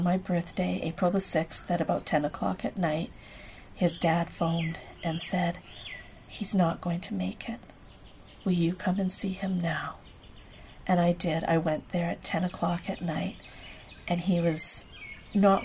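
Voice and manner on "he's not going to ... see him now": hushed father. Retold or imitated. Grieving father's late call.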